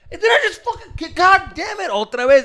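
high loud laughing mock yell; exasperated guard. Security guard catching him again, loud laughing yell. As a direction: play the fed-up guard through laughter.

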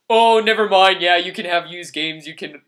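mock dismissive. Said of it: "they're like".

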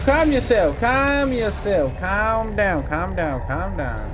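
high loud to normal calming; calm it down, settling as you go; mock soothing fading. Real, not acted. Gamer calming a monster, high and loud then fading.

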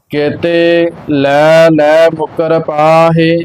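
slow, measured sacred recitation; scripture recitation. Acted. Teacher reciting Gurbani for learners, slow measured chant-like reading. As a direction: recite evenly, drawing out the line endings.

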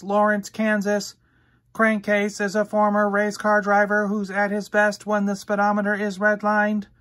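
flat robotic readout voice; robot database voice. Acted. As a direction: read the file card like a computer. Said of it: "Robot database voice".

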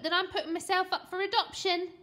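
put-on a child's indignant threat; petulant boy. A narrator's reading. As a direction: play a loud, stroppy kid. Boy threatening his mum.

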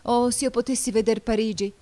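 high, loud, delighted cry; jubilant exclamation. A narrator's reading. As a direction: exclaim it with eager joy. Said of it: "esclamò Fillide giubilante".

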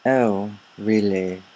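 slow, mock English accent; put-on English accent. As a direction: play at being English, drawn out. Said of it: "Why are you speaking in that accent?".

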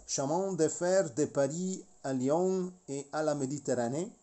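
"Chemin de Fer de Paris à Lyon et à la Méditerranée" said with a French nasal "Lyon" and an r in "Fer"; French pronunciation. Real, not acted. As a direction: read the company name as a French speaker would, with a light foreign accent. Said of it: "there I go with French".

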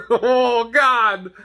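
laughing through it; amused groan. Real, not acted. Laughing at the thought.

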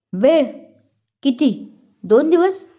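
rising angry disbelief, pitch climbing high; angry boss. A narrator's reading. Boss glares at Patil, angry disbelieving question. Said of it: "ते त्याला रागात पाहत म्हणतात".

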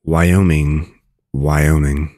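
"Wyoming" said clearly as why-OH-ming; careful, even demonstration of "Wyoming", ending in ming; correct Wyoming. Shown as a demonstration. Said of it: "You now know how to pronounce".

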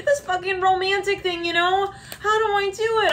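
high, bewildered voice of a clumsy suitor; flustered admirer. Acted. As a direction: whine it like someone lost at romance.

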